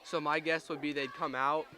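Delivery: talking through hiccups; words broken by a hiccup. Real, not acted. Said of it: "I have the hiccups again".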